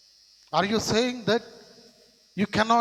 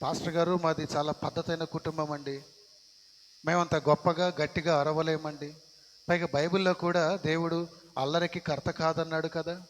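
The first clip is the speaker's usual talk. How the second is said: soft, lower, proper voice of an excuse; mock prim churchgoer; 4 semitones lower, 6 dB quieter than usual. Churchgoer excusing themselves to the pastor, mock prim. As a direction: play a genteel believer making excuses. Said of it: "అంటే".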